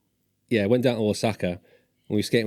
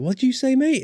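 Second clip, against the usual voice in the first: mock confrontational; 4 dB louder than usual. Confrontation retold.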